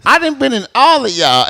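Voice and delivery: high, slow, laughing put-on voice; mock drawl quote. To his partners, in a high, slow laughing voice. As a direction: drag it out high through a laugh. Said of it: "I'm like".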